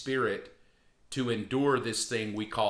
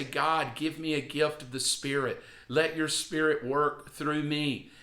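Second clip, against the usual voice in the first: modelled prayer; 2 semitones higher than usual. Shown as a demonstration. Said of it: "And just say".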